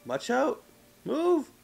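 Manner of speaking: high sharp shout; yelling. Real, not acted. Yelling at the enemy.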